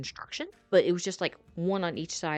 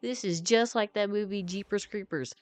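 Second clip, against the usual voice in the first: mock laugh, then higher-pitched amused remark; imitated laughing; 4 semitones higher than usual. Friend laughing at a horror-movie situation, imitated laughing. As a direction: act out a friend cracking up. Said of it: "my friend Roberto starts laughing".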